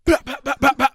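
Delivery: high mocking gang chatter. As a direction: parody the loud boasting crew.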